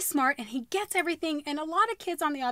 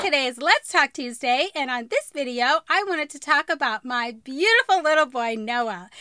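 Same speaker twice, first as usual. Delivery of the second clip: intro read; 5 dB louder than usual. Acted. Presenter read retake.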